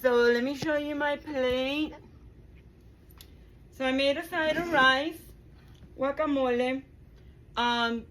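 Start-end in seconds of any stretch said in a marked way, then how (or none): 0.0-1.9 excited. Real, not acted. Building up to the tasting.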